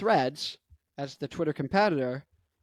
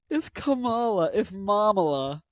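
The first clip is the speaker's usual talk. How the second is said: lightly put-on Kamala Harris voice, raised pitch; Kamala impression; 4 semitones higher than usual. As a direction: lift it into a light mimicry. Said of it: "what she sounds like".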